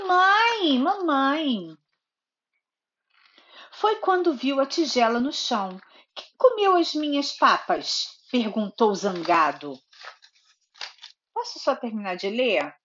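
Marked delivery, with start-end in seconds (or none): 3.7-9.8 storybook narration with lively character lines; reading to a child. A narrator's reading. Mother reading Goldilocks to her little daughter, storybook narration. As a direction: read it like a bedtime story for a toddler.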